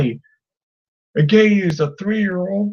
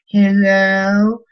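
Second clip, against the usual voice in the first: put-on three-year-old boy; 2 semitones higher than usual. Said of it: "He's, like, three years old".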